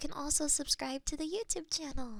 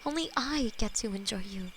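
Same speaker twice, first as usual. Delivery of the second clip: whispered demon lover; 4 semitones lower than usual. Acted. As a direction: hold them close and murmur tenderly as a loving demon. ASMR demon lover roleplay.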